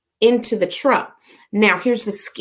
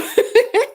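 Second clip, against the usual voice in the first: high laugh. Real, not acted. Thanked for Aruba welcome.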